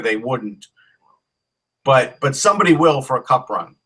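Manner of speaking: chewing ice while talking; ice in mouth. Real, not acted. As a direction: talk around a mouthful of ice. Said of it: "Sorry, I'm chewing ice".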